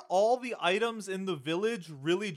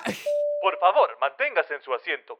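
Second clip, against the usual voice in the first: Disney tram announcer; 4 dB louder than usual. Retold or imitated. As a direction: recite it like a recorded safety message on a ride. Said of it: "On the tram at Disney World".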